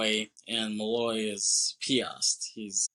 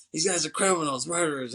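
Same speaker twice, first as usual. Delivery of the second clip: higher-pitched mock indignation; lightly acted outrage; retold pissed-off protest; 6 semitones higher, faster than usual. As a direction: imitate an angry man objecting, without shouting. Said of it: "He's all pissed off".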